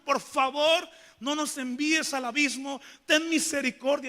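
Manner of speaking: begging demoniac. Acted. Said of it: "Como rogando". (el endemoniado rogando, más agudo y fuerte)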